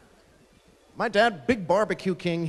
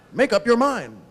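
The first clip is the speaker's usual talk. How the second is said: loud, higher-pitched mock exasperation; imitating a fed-up kid; exasperated complaint; 5 semitones higher, 5 dB louder than usual. Kid to his dad in the fishing boat, exasperated.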